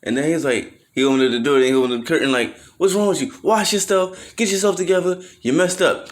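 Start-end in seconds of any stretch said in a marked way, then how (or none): 2.8-6.1 high, loud imitated scolding; mad uncle. Uncle opening the curtain on drunk nephew, loud mock scolding. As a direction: scold him like a fed-up uncle. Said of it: "'Cause he was mad".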